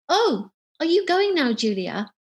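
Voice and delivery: high, eager mock excitement; imitating her bright, eager question; a touch of hammed-up excitement as she grabs the arm; excitedly. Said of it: "all excitedly".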